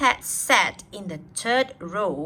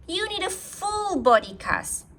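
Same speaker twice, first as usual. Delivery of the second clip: doctor Ted; 12 semitones higher than usual. Acted. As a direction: announce it like a proud kid doctor. Ted prescribes to principal.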